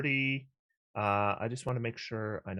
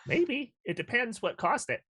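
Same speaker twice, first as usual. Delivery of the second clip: trembling whiny yelps; 12 semitones higher than usual. Acted. Rabbit character answers question.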